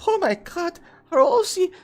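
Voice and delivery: high-pitched mock Allied soldier; very high put-on voice. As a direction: squeal it as a startled soldier, hammed-up. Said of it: "They'd be like".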